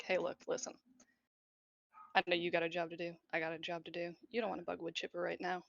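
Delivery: quick, hushed, sly insider pitch; conspiratorial tone. Acted. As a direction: lean in and let them in on a secret. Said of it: "kind of a conspiratorial tone".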